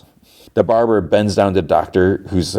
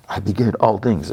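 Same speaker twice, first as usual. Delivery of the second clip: imitated echo. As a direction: trail it like an echo of a proclamation. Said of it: "It, like, echoes".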